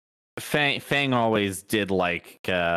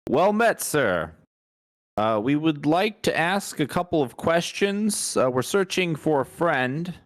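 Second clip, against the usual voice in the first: higher-pitched, formal in-character greeting; courteous adventurer; 5 semitones higher than usual. Acted. Player asking a pirate about a missing friend, courteous raised voice. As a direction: address the pirate politely, pitched up.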